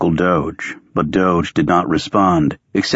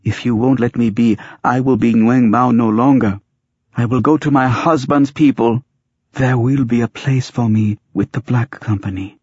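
high-pitched, defiant woman character; determined, raised-pitch ultimatum; defiant declaration; 6 semitones higher than usual. A narrator's reading. Sari defies her family.

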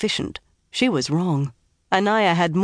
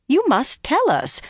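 much higher, kindly urging; kindly, tinged exasperation; 10 semitones higher than usual. A narrator's reading. Motherly Aes Sedai urges Min to answer, kindly but mildly exasperated. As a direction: gently insist with a touch of exasperation. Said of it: "in a more kindly voice".

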